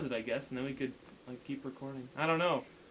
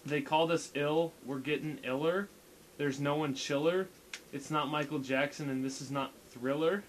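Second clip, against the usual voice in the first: deadpan. Shown as a demonstration. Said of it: "like, dead-, deadpan voice".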